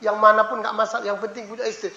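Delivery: soft, offhand prayer; careless prayer. Retold or imitated. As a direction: toss off the prayer quietly. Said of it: "jangan salah minta". (doa asal-asalan yang lirih)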